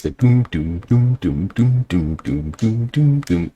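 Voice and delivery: vocal bass line doom doom; walking bass imitation. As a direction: mimic a walking bass with your voice. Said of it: "a walking bass".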